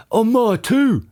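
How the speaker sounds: high-pitched shout without much volume; character's shout. A narrator's reading. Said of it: "shouted Mister Twit".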